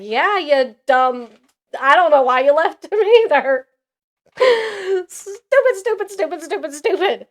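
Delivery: exasperated chant of stupid, pitched high; scolding the character in mock fury; mock angry rant. Reader scolds a character for leaving, exasperated mock rant. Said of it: "And I'm over here like".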